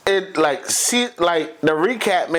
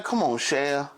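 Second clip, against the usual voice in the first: Gambit pleading. Retold or imitated. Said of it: "Gambit's trying to be like".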